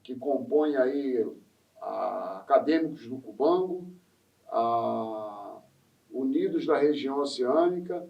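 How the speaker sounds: measured promotional invitation; event announcement. Real, not acted. Host inviting listeners to the samba school's feijoada, announcer style. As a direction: announce the feast to everyone listening.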